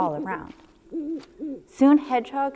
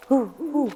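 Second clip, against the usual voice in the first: higher howling hoo; howling wind; 5 semitones higher than usual. A narrator's reading. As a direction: howl like the wind. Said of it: "howled the wind".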